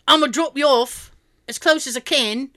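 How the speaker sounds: imitated London cabbie accent; thick London accent. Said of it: "like, that thick accent".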